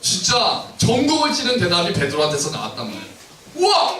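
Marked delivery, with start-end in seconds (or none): 3.5-4.0 high, thrilled outburst; the right way to read Jesus' reply; excited reading. Shown as a demonstration. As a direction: read it with real amazement. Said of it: "우리 이렇게 읽으면 안 되는 거예요".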